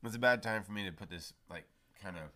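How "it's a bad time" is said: talking with candy in the mouth; words round a sour candy; eating sour candy. Real, not acted. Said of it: "I basically can't speak".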